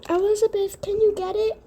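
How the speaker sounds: high, loud call across the house. Acted. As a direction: call her from another room. Character calls from across the house.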